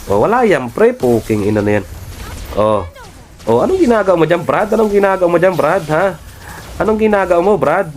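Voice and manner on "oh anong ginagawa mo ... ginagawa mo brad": taunting. Real, not acted. Taunting enemy player.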